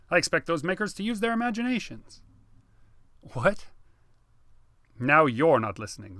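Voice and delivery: exasperated rant about robot design; worked-up brother. Acted. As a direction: press the point, getting heated.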